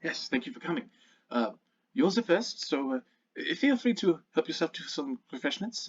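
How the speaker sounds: put-on loose, half-managed German accent; host's wobbly stab at a German accent; attempted German accent. Host offering a guest refreshments, attempted German accent. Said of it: "I can't do a German accent".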